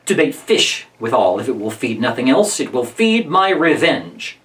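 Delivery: lightly voiced Shylock, low then slowing on the last phrase; Shylock, vengeful. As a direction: lightly play a man set on revenge, weighing the final words. Reads Shylock's reply.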